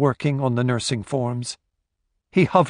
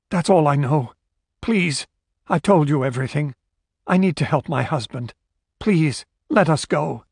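desperate begging; 3 semitones higher than usual. Acted. Woman begs gunman to release them.

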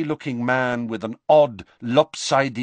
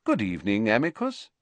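calm; faster than usual. Acted. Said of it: "said Dumbledore calmly".

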